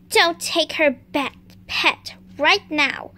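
low hero voice. Pretend. Hero voice stops robber.

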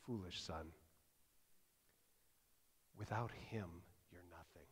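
low, soft, hushed counsel; a mother softly setting her son straight. Retold or imitated. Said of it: "She says".

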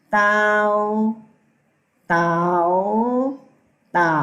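เตา called out loud, dipping third tone; third tone demo. Shown as a demonstration. Teacher models เตา in third tone for students. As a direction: call เตา loudly with a dip. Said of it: "เสียงที่สาม".

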